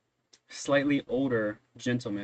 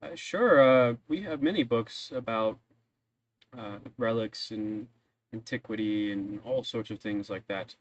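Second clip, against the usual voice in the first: put-on a helpful old man pointing the way; old librarian voice.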